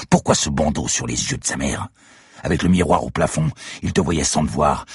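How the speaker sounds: defiant accusation. Acted. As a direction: press him hard, step by step.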